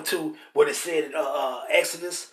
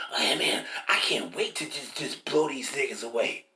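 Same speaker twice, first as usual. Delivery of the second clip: a quiet, low-murmured cop gloating; eager cop; 5 semitones lower, 4 dB quieter than usual. Retold or imitated. Preacher voicing cops eager to shoot, quiet and gloating. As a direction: half-whisper like a cop sharing a secret wish.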